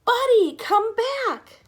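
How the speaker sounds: loud, high call into the distance. A narrator's reading. Boy calls his lost dog across the mountain, loud. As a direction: call the dog's name far off. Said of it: "Sam called over and over".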